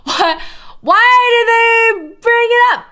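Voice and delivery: why did pitched high and loud in disbelief; exasperated question. Real, not acted. Streamer baffled by the Wikipedia writers, asks high and loud. Repeats question, first exaggerated.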